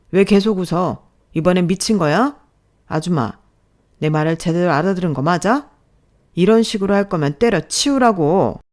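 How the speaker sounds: loud, scornful yelling; angry boss. Acted. Boss yells at smiling subordinate, loud and scornful. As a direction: berate her for smiling, loudly.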